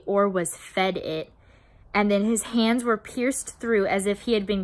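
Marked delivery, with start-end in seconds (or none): 0.1-1.3 slower, understated dark aside; a touch of menace, taken slowly; said darkly. A narrator's reading. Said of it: "Thiago says darkly".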